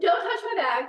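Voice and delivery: a touch of shouting over the bag; snapped shout. Acted. Woman warning off a fellow passenger, mildly shouting. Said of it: "Why are you shouting all the time".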